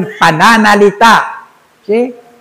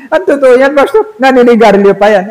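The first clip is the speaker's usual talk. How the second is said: mocking laugh; 5 semitones higher than usual.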